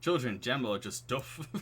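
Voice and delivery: put-on Northern English vowels; amateur Northern accent; generic Northern accent. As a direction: play a Northern English dad. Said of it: "it's just a generic Northern accent".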